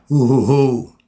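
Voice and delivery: mock welling up, hoo hoo; emotional hoos. Shown as a demonstration. Believer showing how prayer moves him, emotional hoos. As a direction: show the spirit rising in you. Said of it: "start to get a little touchy there".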